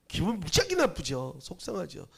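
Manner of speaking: normal talking voice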